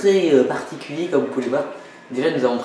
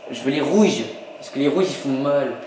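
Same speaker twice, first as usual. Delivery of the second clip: silly way of talking. Pretend. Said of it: "je parle comme ça".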